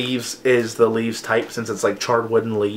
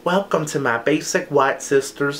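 lightly put-on southern drawl; imitated southern accent. Quoting a TikTok guy to viewers, in a mock southern accent. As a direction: mimic a TikTok guy's southern twang. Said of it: "reads them in this ra-, crazy southern accent".

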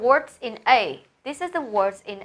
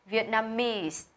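Vietnamese stressed on its third syllable, -NAM- or later as taught; careful word-stress demo of "Vietnamese", third syllable leaning; 5 dB quieter, much slower than usual. Shown as a demonstration. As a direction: model "Vietnamese" with the beat on syllable three. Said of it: "âm tiết thứ ba được nhấn".

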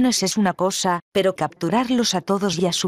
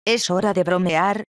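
frustrated voice. A narrator's reading. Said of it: "dije con voz frustrada".

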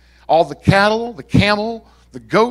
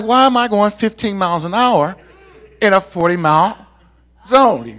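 retold exasperation; 4 semitones higher, 4 dB louder than usual. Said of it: "I'm like".

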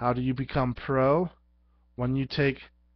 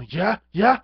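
gloating; 7 semitones higher, 7 dB louder than usual. Pretend. Gloating over beaten foe.

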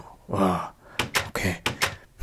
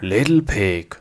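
calling out; 2 semitones higher, 4 dB louder than usual. Acted. Wolf calls to the pig.

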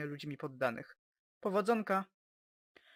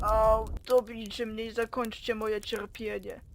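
melodramatic moaning; 3 semitones higher, 3 dB louder, slower than usual. Acted. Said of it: "Nie dramatyzuj".

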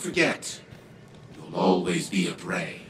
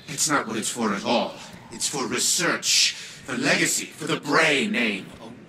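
insistent correction. Acted. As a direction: insist on your legacy, raising the pitch. Clovis corrects granddaughter in argument.

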